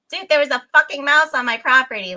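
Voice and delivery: worked-up mock shock; retold disbelief. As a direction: exclaim it like telling a friend the shocking news. Retelling her shocked reaction.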